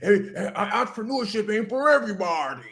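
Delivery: mocking laughter. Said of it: "they start talking like that".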